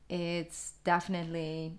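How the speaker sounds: normal talking voice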